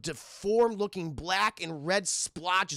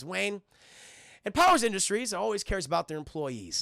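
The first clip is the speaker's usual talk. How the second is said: "Wayne" set apart, long pause before "and Powers"; grudging pause after Wayne; 2 semitones higher than usual. Retold or imitated. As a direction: say "Wayne", stop, then push on with "and Powers". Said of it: "that little subtlety in his voice".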